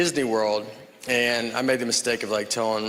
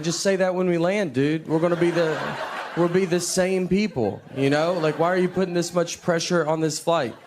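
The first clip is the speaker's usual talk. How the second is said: higher, pleading mock complaint to the pilot; exasperated plea; 4 semitones higher than usual. Passenger pleading with the retiring pilot, mock exasperated. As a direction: talk him out of saying it.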